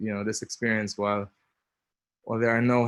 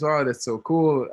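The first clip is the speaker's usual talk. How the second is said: excited gush; 5 semitones higher, 7 dB louder than usual. Retold or imitated. Friend excited about dating guys.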